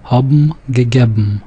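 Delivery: Haben gegeben as habm gegebm; m endings in Haben gegeben. Shown as a demonstration. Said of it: "the N sound changes to the M sound".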